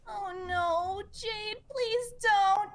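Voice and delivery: breaking into loud sobs; tearful plea, then loud sobbing. Acted. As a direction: beg through tears, then break down. Jade breaks down at the memory.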